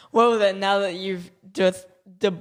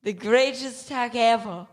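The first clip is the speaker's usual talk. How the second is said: tech snob voice; 4 semitones higher than usual. Acted. Grand snob build-up.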